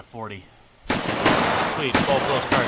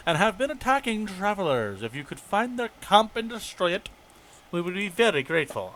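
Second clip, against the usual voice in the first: lightly voiced officer giving a briefing; formal quest-giver delivery; game commander reading; 3 semitones higher than usual. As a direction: read the orders out lightly in character. Reads game officer's quest dialogue.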